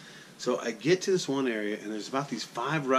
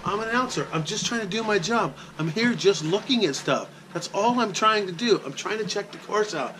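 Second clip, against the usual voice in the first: high, louder, desperate pleading; pleading explanation; 9 semitones higher, 3 dB louder than usual. Retold or imitated. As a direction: plead your case to the angry worker, pitched up. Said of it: "I'm trying to tell him".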